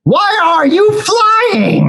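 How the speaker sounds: very high, slow, mocking; mocking retort. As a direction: throw the question back, sneering. Snake mocks hummingbird.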